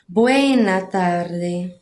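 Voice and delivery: very drawn-out, low "Buena tarde"; slow demonstration. Shown as a demonstration. Teacher shows class the other greeting form, slow demonstration. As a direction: stretch "Buena tarde" slowly and low for learners. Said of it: "vão encontrar assim".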